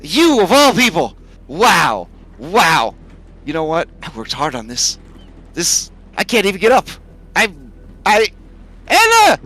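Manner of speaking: high, loud pained wailing; whiny dragon yelling. Acted. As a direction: wail for help, stuck. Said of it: "And Kyra goes".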